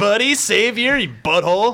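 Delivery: mocking tone. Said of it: "like this sarcastic".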